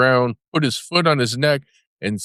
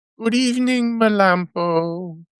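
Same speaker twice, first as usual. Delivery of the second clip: sweetly spoken in a high voice; 9 semitones higher than usual. Reading a story; a weasel calls at the doghouse door in a sweet voice. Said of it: "said in a sweet voice".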